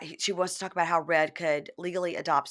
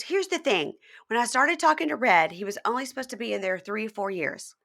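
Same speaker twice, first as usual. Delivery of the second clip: put-on higher, louder childlike voice; high baby voice; 6 semitones higher, 4 dB louder than usual. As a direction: play her as a whiny little girl. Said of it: "high-pitched baby voice".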